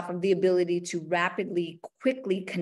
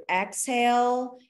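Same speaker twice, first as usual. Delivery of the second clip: slow exhale cue; 4 semitones higher, slower than usual. Shown as a demonstration. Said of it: "every time you lean forward".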